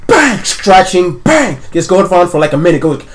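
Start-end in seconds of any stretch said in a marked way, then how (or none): 0.1-1.6 banging imitated high and loud; pounding noises. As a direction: voice frantic thumps on a door.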